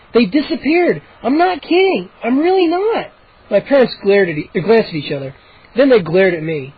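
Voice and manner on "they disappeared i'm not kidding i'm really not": insistent. A narrator's reading. Boy insisting to parents.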